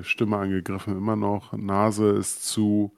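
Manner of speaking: stuffy nose. Real, not acted. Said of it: "wie man vielleicht noch hört".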